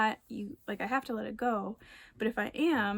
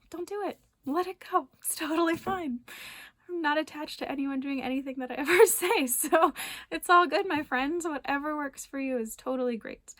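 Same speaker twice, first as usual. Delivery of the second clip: high, louder, laughing reassurance; breezy, playful; 5 semitones higher, 4 dB louder than usual. Pretend. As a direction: wave it away with a laugh. Lighthearted permission to ignore advice.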